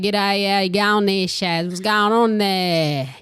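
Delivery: broad North Queensland bogan with some eshay; regional bogan-eshay accent. Shown as a demonstration. Host attempting North Queensland bogan mixed with eshay accent. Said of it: "really thick North Queensland regional".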